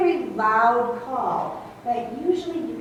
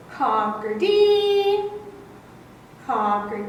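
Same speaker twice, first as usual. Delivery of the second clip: blackbird call imitation; 3 semitones higher, 3 dB louder, slower than usual. Shown as a demonstration. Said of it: "Where he says".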